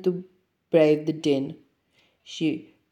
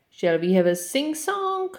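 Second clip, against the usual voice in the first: high, eager little lion voice; a bright young lion asking to sing; 9 semitones higher than usual. Acted. Lion character voice.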